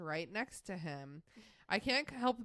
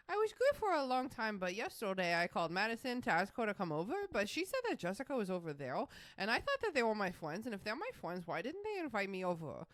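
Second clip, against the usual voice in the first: put-on little girl voice; 3 semitones higher than usual. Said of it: "Emma's the baby voice".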